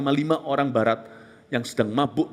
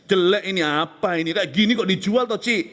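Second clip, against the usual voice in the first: mock haggling scorn; 4 semitones higher than usual. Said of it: "kita akan bunuh karakternya".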